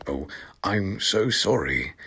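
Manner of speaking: soft, shy apology; a shy boy apologizing. Acted. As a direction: say it timidly, barely up. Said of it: "he said in a shy voice".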